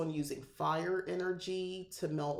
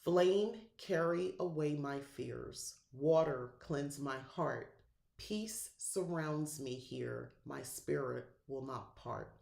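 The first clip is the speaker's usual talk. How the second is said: recited incantation; slower than usual. Shown as a demonstration. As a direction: intone the words like a calming ritual. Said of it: "Here's some words you can choose to use".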